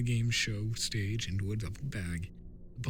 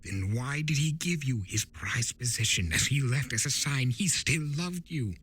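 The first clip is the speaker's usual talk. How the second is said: lightly voiced trickster, a bit higher and playful; Discord, sly spirit of chaos; 6 semitones higher than usual. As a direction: tease him like a know-it-all chaos spirit. Discord questions Turek.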